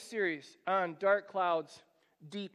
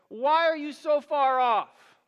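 desperate plea; 5 semitones higher, 8 dB louder than usual. Acted. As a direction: call out as if God has walked off. Voicing the psalmist's desperate plea.

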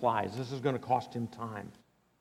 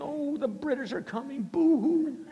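high, whiny fake sob over the news; mock whining; 12 semitones higher than usual. Preacher mocks a nation that only weeps, high mock whine. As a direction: whimper it like a crybaby. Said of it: "by saying".

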